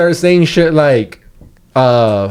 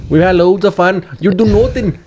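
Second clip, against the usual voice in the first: bad Irish accent; 5 semitones higher than usual. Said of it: "You're terrible at this accent".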